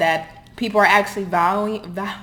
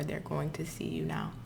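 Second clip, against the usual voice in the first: whisper; 3 semitones lower, 12 dB quieter than usual. Real, not acted. Emphatic hushed promise to viewer.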